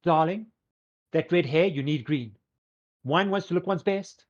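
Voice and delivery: high, grand fashion-diva pronouncement; lilting, theatrical boutique owner; Fabulous. Acted. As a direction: advise a client like a haughty stylist. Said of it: "looks at Oren specifically and goes".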